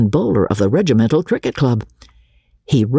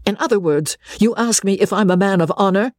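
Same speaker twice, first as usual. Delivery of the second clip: high-pitched, offended challenge; fierce; 9 semitones higher than usual. A narrator's reading. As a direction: demand an answer, pitched high and indignant. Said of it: "said Osborne fiercely".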